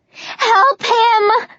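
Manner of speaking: high desperate cry. Acted. Juliet crying out for Jenkins, desperate. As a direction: cry out, near tears. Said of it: "I cry".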